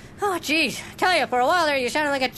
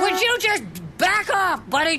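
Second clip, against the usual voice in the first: annoyed shout. Acted. Angry at drive-thru worker.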